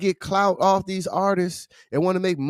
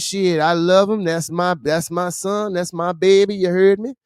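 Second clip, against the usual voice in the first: lightly put-on New Orleans accent, quoting Birdman; mock Birdman in a Louisiana accent; Birdman's New Orleans accent. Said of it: "I know my accent ain't shit, but that's what he said".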